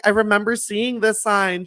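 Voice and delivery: high imitated gush of recognition; retold excited reaction. Stacy recognizing his sign, imitated high excitement. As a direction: imitate someone thrilled to recognize something. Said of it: "she's like, she's like".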